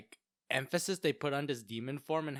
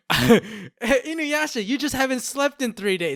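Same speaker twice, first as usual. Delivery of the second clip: mock scolding parent; 7 semitones higher, 10 dB louder than usual.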